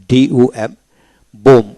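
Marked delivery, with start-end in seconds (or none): 1.4-1.7 "বোম" ending on m; silent B. Shown as a demonstration. Teacher showing learners a silent letter, "বোম" without final B. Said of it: "বি উচ্চারিত হবে না".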